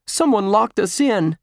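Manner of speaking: high, loud cry of alarm. Acted. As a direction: exclaim it like a trapped boy. Trapped boy alarmed in the dark.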